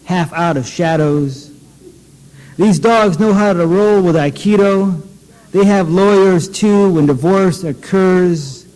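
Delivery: measured, deliberate poetry reading voice; poem reading. Acted. Poet reading his own poem to an audience, measured. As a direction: read each image slowly and let it land. Reads the Berkeley Dogs poem.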